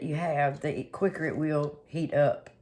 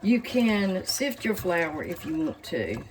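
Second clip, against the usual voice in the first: slower, stressed "you can sift your flour"; slow and deliberate; slower than usual. Shown as a demonstration. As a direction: repeat it slowly for emphasis. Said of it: "That's why I'm saying".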